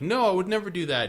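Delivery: fast high protest. Retold or imitated. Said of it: "she's like".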